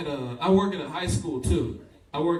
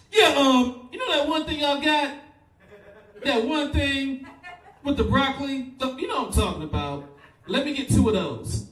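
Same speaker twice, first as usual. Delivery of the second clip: mock Asian accent; 9 semitones higher, 3 dB louder than usual. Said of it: "She was Asian, if you couldn't tell by the accent".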